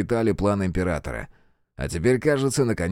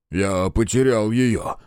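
breathed out; slower than usual. Acted. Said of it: "выдохнул он".

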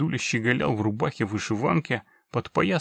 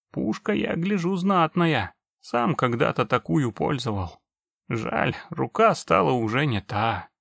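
put-on very old man; 3 semitones higher, 3 dB louder than usual. Old orc grandpa speaking.

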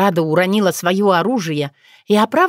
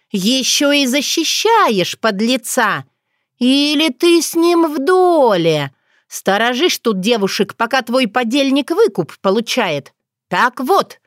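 high, slow outraged scolding; indignant accusation; 5 semitones higher, slower than usual. Acted. Otrada accusing Bogdan of being an accomplice, indignant. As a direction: catch him out and scold.

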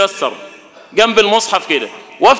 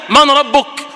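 questioning angel; 5 semitones higher, much slower than usual. Acted. Preacher voices the grave questioner.

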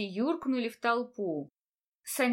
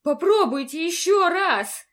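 loud and high, begging; desperate plea; 6 semitones higher, 9 dB louder than usual. A narrator's reading. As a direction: beg them to try once more. Heroine begs them to retry.

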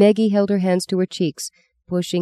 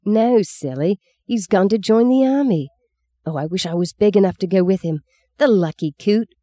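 put-on boy's voice; 4 semitones higher than usual. Boy Bob voiced excitedly.

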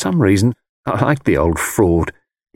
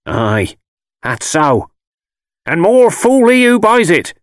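put-on old crone rising to a loud, high pitch; scornful old country crone, building louder; old gypsy woman; 11 semitones higher, 5 dB louder, slower than usual. A narrator's reading. Old woman scorns whoever buys it, crone voice.

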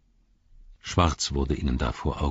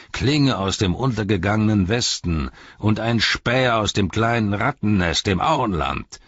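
mocking, scornful herald voice; a sneering messenger of the enemy mocking the captains; sneering envoy; 2 semitones higher than usual. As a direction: taunt the wizard with contempt. Mouth of Sauron voiced.

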